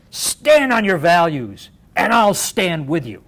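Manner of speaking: rallying close. Retold or imitated. Closing a convention speech to conservatives, slow rallying call. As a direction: land the last words like a promise.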